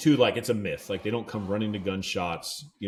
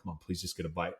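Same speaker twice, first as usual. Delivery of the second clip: quiet pleading; 5 semitones lower, 11 dB quieter, faster than usual. Retold or imitated. Pleading with the fish under breath.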